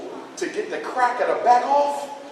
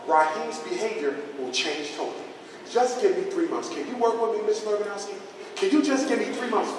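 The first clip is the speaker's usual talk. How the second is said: pleading softly; 5 dB quieter than usual. Acted. Mother pleading softly with teacher.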